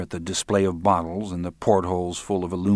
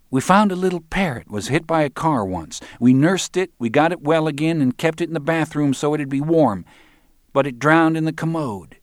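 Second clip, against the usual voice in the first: higher-pitched voice for a woman in a story; wistful woman character; 8 semitones higher, 5 dB louder than usual. A narrator's reading. Woman telling a customer about an injured parrot, high character voice. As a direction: voice a woman recalling a little pet, pitched well up.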